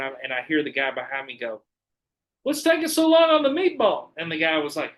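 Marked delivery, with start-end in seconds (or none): 2.4-4.1 high, loud impatient customer; squeaky hammed-up customer complaint; imitating impatient customer. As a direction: call it out high and pushy from the back of the line. Customer behind voiced in story.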